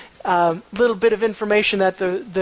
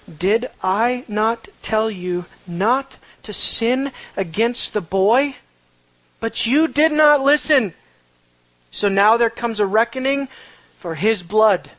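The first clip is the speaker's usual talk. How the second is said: Reuben scolding; slower than usual. Acted. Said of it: "And Reuben answered them".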